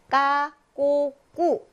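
까, 꼬, 꾸 each with a hard, tense, unaspirated k; drawn-out, separate syllables 까, 꼬, 꾸 with tight k; tense double-kiyeok sound. Shown as a demonstration. Teacher models Spanish c before a, o, u, 까, 꼬, 꾸 with tense k. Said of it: "쌍기역 발음이 납니다".

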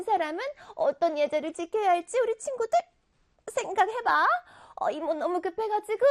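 put-on high character voice; chatty octopus aunt. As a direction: play a lively cartoon aunt talking to children.

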